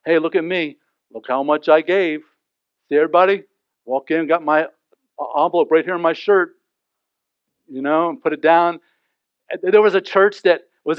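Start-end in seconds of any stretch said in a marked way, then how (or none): 0.0-8.8 bragging gloat giver. Retold or imitated. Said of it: "the gloat givers".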